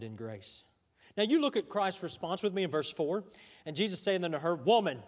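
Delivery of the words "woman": mock-stern address; stern misreading. Shown as a demonstration. Preacher shows how people read Jesus's word, mock stern. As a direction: say it curtly, as a mild rebuke. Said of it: "That's how we read it".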